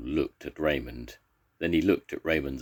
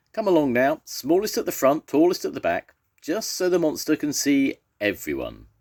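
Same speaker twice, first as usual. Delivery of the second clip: high, loud marshalling voice; rally the troops as a confident lion; bossy lion; 11 semitones higher, 5 dB louder than usual. A narrator's reading. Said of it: "His throat was suddenly much better".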